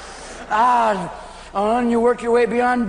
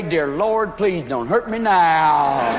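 slow pleading prayer; mock pitiful prayer; hungover prayer; 3 semitones lower, much slower than usual. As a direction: beg the Lord slowly, hurting.

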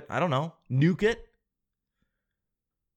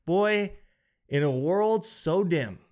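mock trailer voice; 4 semitones higher, much slower than usual. Mock movie-trailer opening.

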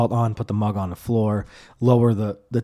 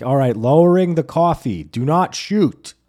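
a touch louder, slowing right down on do not shoot; mock compliance; 4 semitones higher, 5 dB louder than usual. Driver to cop, hammed-up compliance. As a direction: ham up the nervous suspect.

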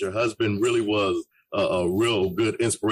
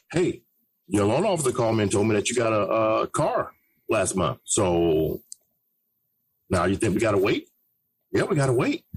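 AM radio voice; 3 semitones lower than usual. Shown as a demonstration. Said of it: "You have to give that A M radio voice".

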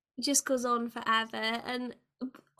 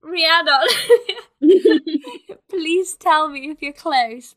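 pleading call; 4 semitones higher, 9 dB louder than usual. Retold or imitated. Calling a late friend.

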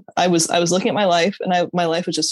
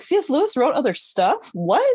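higher-pitched, amazed questioning; intrigued disbelief, pitched up; piqued surprise; 5 semitones higher than usual. Retold or imitated. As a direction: retell it as an astonished, curious reaction. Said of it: "I was so piqued".

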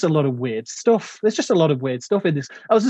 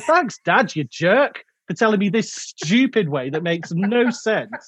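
higher-pitched mock indignation; sarcastic thanks; 5 semitones higher, slower than usual. Film fan voicing the heroine griping at her dad, mock indignant. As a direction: play an exasperated kid sarcastically thanking a parent.

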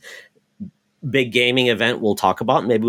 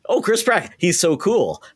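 mock gushing; 6 semitones higher than usual. Mocking Miyamoto's gushing praise.

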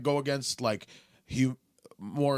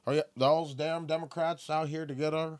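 put-on Southern accent. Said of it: "I'm sorry that I did a Southern accent".

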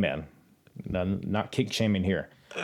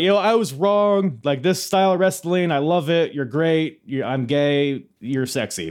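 Jim Cornette wrestling promo; 6 semitones higher, 4 dB louder than usual. Retold or imitated. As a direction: cut a hammed-up wrestling promo. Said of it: "cutting a promo".

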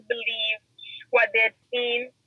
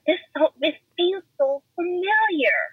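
tearful; 6 semitones higher than usual. Retold or imitated. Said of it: "and I'm like".

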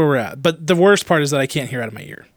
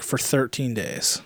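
slow, softer whispered aside; 3 semitones lower, 7 dB quieter, slower than usual. Real, not acted. Telling co-host Kirk about his deaf ear, whispered. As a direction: whisper it like a grim secret. Stressing how long he's been deaf.

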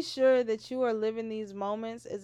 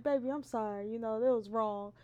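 softer sweet apologetic tone; soft apology; 2 semitones lower, 4 dB quieter than usual. Retold or imitated. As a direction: coax like a gentle sorry. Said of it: "you're probably like".

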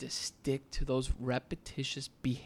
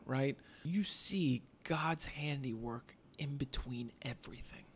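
hushed reverence; 3 dB quieter than usual. Real, not acted. Spiritual point, hushed.

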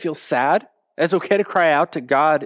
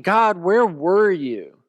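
pleading question; 3 semitones higher, much slower than usual. Retold or imitated. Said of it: "you're asking".

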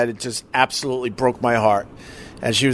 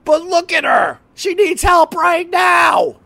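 mock nurse; 10 semitones higher than usual. Husband imitating the nurse arguing with the clerk, high mock plea. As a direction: play the nurse pleading, pitched high. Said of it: "the nurse is like".

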